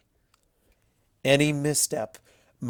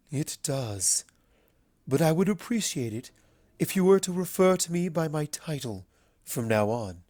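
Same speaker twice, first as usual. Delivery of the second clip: a lower, resonant regal voice; deeper, resonant Luna; 4 semitones higher than usual. Acted. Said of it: "in a voice far deeper and more resonant".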